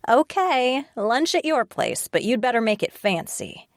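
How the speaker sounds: bright falsely cheerful reply; forced cheer. Acted. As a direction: fake a breezy agreement. Lucy fakes cheerful agreement.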